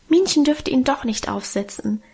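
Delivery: ordinary delivery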